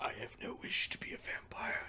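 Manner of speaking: hushed, soft, breathy whisper. Voicing a character who answers the player in the game: whispering. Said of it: "he whispers to you".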